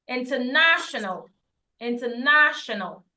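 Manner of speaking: "international" with stressed NASH and a clear final "-nal"; correct international. Shown as a demonstration. Teacher modelling for learners, "international" correctly with stressed NASH. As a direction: punch the third syllable of "international", finish on L. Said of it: "Don't go and say international".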